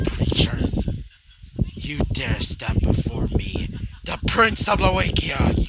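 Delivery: loud commanding prince's shout; screaming out. Acted. Prince screaming defiance at the Grimm. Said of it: "you scream out".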